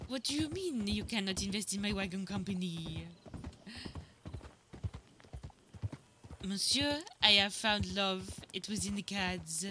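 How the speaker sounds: put-on light French accent, lilting on Monsieur; a dreamy French romantic; French lady. Seraphine declares love in a light French accent. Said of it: "That's kinda how she sounded".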